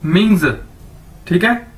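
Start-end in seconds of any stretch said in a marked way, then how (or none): 0.1-0.5 मिंग्स joined as "ming-zuh", falling; model pronunciation. Shown as a demonstration. Teacher putting the two words together for learners, model pronunciation. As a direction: join both syllables of मिंग्स into one word. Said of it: "ये क्या बन जाएगा?".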